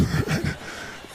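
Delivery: breathy airy laughter; real laugh. Real, not acted. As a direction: laugh off the blunder. Still laughing at the blunder.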